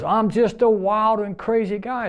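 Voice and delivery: high, slowed goofy catchphrase; Steve Martin impression. Mike repeating his Steve Martin line to a puzzled coworker, high goofy. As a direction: deliver the catchphrase like a comedy sketch. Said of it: "That's Steve Martin".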